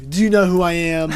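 lightly put-on Southern accent; a hint of mock Southern twang. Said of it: "That was a total Southern accent".

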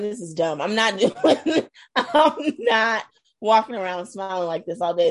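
giggling through the words, half-mocking; laughing it off. Griping about husband's smiling challenge, laughing. Retold mock complaint while laughing.

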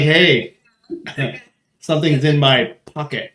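lightly voiced cheeky flirt at security; flirty tease. Host mocks cohost flirting with security guards, teasing. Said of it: "Pi's like".

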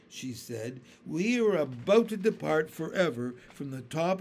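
a hint of a gentle lady; kindly, lightly voiced ladybug. Kind gentle ladybug speaking.

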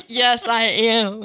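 slow, easygoing drawl imitating him; laid-back instructor. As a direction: stretch it out lazily like a chill Californian. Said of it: "And he's like".

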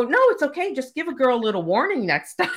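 high, fast, through laughter; laughing it off; laughing reassurance. Retold or imitated. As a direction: brush it off giggling. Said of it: "I go".

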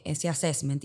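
English word assessment with an English pronunciation; spanglish. Real, not acted. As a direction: say assessment the English way inside Spanish. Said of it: "perdón por el Spanglish".

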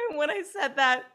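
cracking up; high giggly aside; laughing. Real, not acted. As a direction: laugh spilling into the words. Laughing retelling funny moment.

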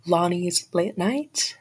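out of breath. Real, not acted. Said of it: "sorry, I'm out of breath".

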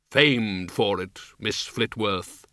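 slow, deep Death voice; grim reaper voice. Acted. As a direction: answer as dry, grave Death. Death speaks slowly.

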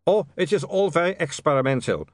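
put-on nervous vampire, Eastern European accent; a jittery Uberwald vampire. A narrator's reading. Otto the vampire speaks.

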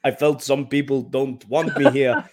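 lightly put-on Portuguese accent, barely off his own voice; a faint Ronaldo accent while reading the quote; mock Ronaldo accent. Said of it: "can you say it in a, uh, Ronaldo accent?".

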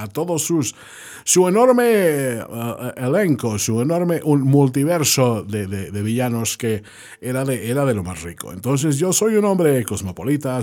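a hint of a pompous Scottish ham actor; Con Connery voice.

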